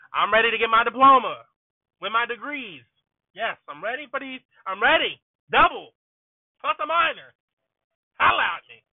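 bursting with excitement, rising and loud; excited. Real, not acted. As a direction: celebrate it, getting carried away. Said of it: "I got too excited".

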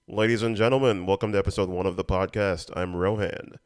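mock-formal showman greeting, only lightly pushed; classic announcer voice. Shown as a demonstration. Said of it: "should I go with the classic announcer voice".

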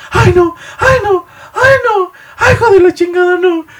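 very high crying mock scream; hammed-up sobbing falsetto shriek; screaming lady. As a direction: wail like a hysterical lady in a bank. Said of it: "empieza a gritar".

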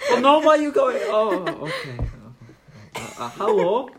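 high, flustered nerd voice. Acted. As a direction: squeak it out in a panic.

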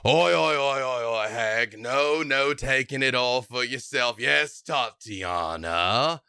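a cocky giant barging into the deal; brash tiefling. Acted. Towering tiefling to the hag, cocky interruption. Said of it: "And he goes".

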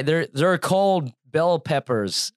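slow, exaggerated Canadian accent. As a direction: do a clumsy Canadian accent, drawing it out. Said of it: "I'm brutalizing the, uh, Canadian accent right now".

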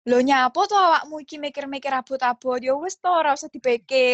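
gentle southern Javanese accent; refined Javanese. Shown as a demonstration. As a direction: speak it in polite, halus Javanese. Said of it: "bahasa Jawa yang halus banget".

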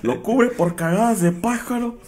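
high, slow salesman line; mock insurance pitch. Mocking an insurance agent's pitch, slow high voice. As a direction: announce the coverage like an ad.

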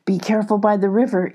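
quick, hushed chipmunk warning. Acted. Chips the chipmunk warning Molly, quick and hushed. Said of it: "Chips warned".

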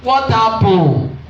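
high, breathless-sounding astonished exchange; acted agitation. Woman overwhelmed by the pastor's visit, imitated high agitation.

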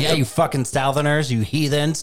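high-pitched, hammed-up heckling voice; mock put-on voice. Co-host mock-scolding Southern listeners over the voices, hammed-up high voice. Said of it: "when I do my voices".

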